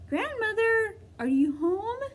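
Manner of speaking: calling out. Acted. Girl calling into the cottage.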